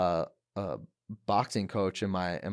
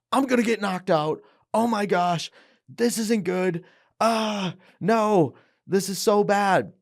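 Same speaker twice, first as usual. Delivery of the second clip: panicked inner voice; 8 semitones higher than usual. Retold or imitated. Panicked inner voice before fight.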